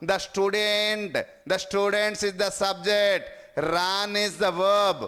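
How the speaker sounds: slow, word-by-word teacher dictation; deliberate classroom dictation. Shown as a demonstration. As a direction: spell the rule out slowly for the class. Teacher parsing the sentence slowly.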